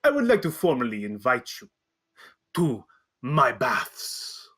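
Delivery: grand invitation. Acted. GM voicing Wakanga.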